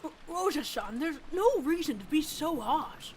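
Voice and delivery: high, slow falsetto protest; pleading servant voice. Acted. Reader voices another character pleading.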